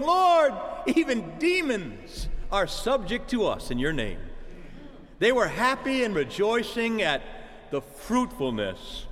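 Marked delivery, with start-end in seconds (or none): 0.0-4.2 joyful shout. Retold or imitated. Disciples report to the Lord, shouting Lord with joy. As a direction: burst out with Lord like a thrilled disciple. Came back shouting and proclaiming.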